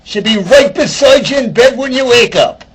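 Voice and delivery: high, loud Irish lilt; Irish leprechaun. Retold or imitated. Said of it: "The leprechaun says".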